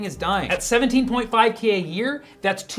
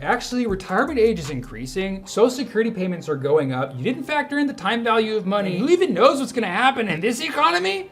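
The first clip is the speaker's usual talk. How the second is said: data troll. Acted. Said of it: "data trolls out there are gonna be like".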